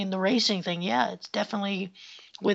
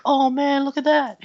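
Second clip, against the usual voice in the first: excited shout; 6 semitones higher, 7 dB louder than usual. Retold or imitated. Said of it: "They were like".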